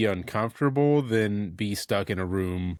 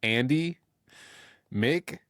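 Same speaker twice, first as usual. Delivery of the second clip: lightly raised, theatrical roll call with pauses; song intro roll call; 3 semitones higher than usual. Retold or imitated. Co-host imitating the song's intro, rising roll call. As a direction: call each bandmate, leaving gaps for answers.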